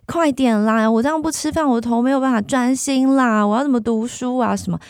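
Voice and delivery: put-on whiny kid sister. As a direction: nag like a hungry little sister who can't wait. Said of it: "然后那个时候妹妹就打来说".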